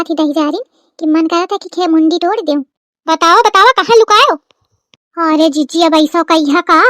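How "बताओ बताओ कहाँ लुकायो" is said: loud, insistent accusation; angry demand, louder. Acted. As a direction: press her hard for the answer. Aunt demands the hidden sack.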